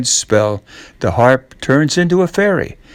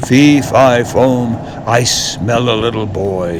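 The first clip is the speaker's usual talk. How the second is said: giant voice; 2 semitones lower than usual. Acted. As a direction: sniff out the boy like a giant. Giant's chant.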